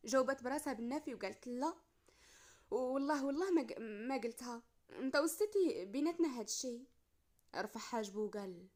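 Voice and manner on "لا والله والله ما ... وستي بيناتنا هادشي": earnest denial. Acted. She swears she told nobody.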